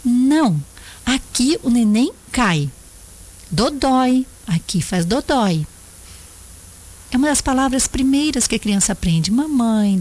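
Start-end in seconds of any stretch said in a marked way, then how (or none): 0.1-5.7 firm but calm warning. Shown as a demonstration. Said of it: "olhe firme pra ela e diga assim".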